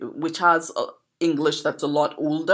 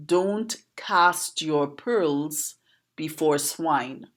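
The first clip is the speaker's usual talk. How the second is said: slow proverb recital; much slower than usual. Shown as a demonstration. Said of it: "And that proverb is".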